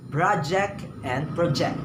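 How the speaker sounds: first "project" stressed on the front, second "project" on the back; stress shift. Shown as a demonstration. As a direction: PROject then proJECT. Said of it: "Project could be a school task, while project means like this".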